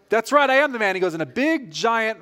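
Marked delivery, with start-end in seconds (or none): 0.1-1.0 higher, cocky I-am-the-man brag; a proud little gloat, mock-retold; puffed-up boast. Friend retelling his proud moment, cocky boast. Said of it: "I'm like".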